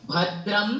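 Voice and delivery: भद्रम said slowly, syllable by syllable; slow plain recitation. Shown as a demonstration. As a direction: spell out भद्रम clearly and slowly. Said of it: "प्लेन pronunciation". (भद्रम धीरे और साफ़)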